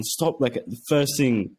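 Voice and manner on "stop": quoting his missus. Retold or imitated. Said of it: "she's gone".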